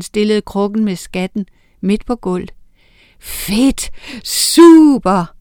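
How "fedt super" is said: put-on cheering kids, rising high and loud; excited cheers. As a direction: cheer like a crowd of children. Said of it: "lød det fra alle sider". (begejstrede børnehurra)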